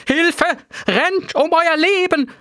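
roaring panic. A narrator's reading. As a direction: yell at everyone to flee. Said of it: "brüllte Professor Lebensgefährlich".

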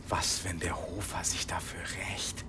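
hushed fearful whisper. Acted. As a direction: whisper it like a ghost story. Spooky fear of revenge from beyond.

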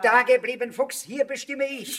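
loud, slow commanding order; stern command. Acted. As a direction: put her firmly in her place. Villain stops her leaving.

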